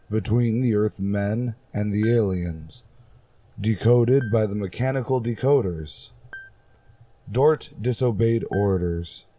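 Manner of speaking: measured radio drama narration, unhurried in places; story narration. A narrator's reading. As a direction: tell it like an old sci-fi radio serial.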